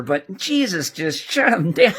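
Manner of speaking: slow, laughing delivery; gleeful chuckle through the words; amused. Acted. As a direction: relish it with a laugh. Gleeful retelling, laugh heard.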